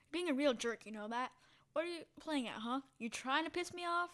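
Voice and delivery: mildly angry challenge, rising in pitch; a touch of irritated confrontation; confrontational. Acted. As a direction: needle them, pitch climbing on the last question. Acted confrontation with the stranger.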